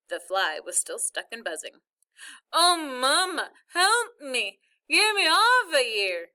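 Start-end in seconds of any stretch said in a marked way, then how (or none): 2.5-6.3 loud, high cry for help; panicked wail. A narrator's reading. Stuck boy calling mother for rescue, panicked wail. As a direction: wail as if your lips are stuck.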